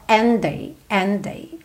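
"And day" with one single D; merged Ds. Shown as a demonstration. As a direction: run "And day" together as "an-day". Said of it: "juntar esses dois Ds num D só". ("And day" com um D só)

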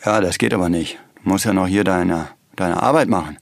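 a hint of a stern deep voice. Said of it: "Ich spreche mit tiefer Stimme".

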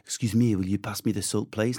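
put-on French accent. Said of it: "French guys over here".

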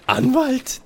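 can't believe that's a lawyer; shocked squeak of doubt; incredulous. Acted. Disbelief at the gorilla lawyer.

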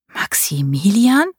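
langsam, ungläubig geflüstert. Acted. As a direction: den Namen fragend hauchen. Marie hiding, spying. (Marie flüstert versteckt hinter der Düne ungläubig den Namen)

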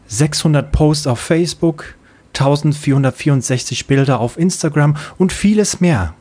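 a hint of a reassuring helper; lightly voiced kind bot. The bot comforting the child, lightly voiced friendly bot. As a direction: explain it with gentle pride.

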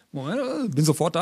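calling from the coffee machine; distant voice from across the room; from another room. Real, not acted. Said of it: "Jetzt ist er an der Maschine".

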